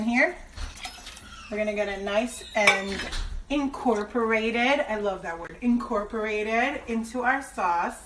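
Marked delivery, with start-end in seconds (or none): 3.5-4.8 savored word. Real, not acted. Savoring a word she loves. 5.6-6.8 savored word. Real, not acted. Repeats the word she loves.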